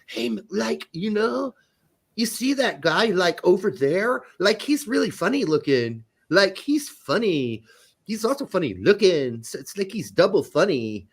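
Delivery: put-on Valley Girl chatter, stretched words; mock Valley Girl. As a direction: imitate a ditzy Valley Girl full of likes. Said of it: "with the V-, Valley Girls. It's like".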